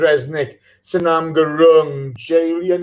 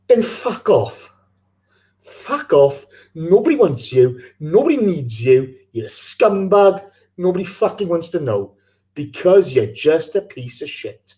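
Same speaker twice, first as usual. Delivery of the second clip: furious tirade at unkind fans; spitting out the insults; angry rant. Real, not acted. Host ranting at fans who insulted Jordi's daughter, furious. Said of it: "On the back of a rant from the host".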